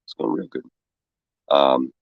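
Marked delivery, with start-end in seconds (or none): 0.0-0.6 mock cheerful. Ironic cheerful reply while sick.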